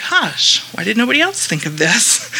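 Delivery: high amazed gosh; surprised. Retold or imitated.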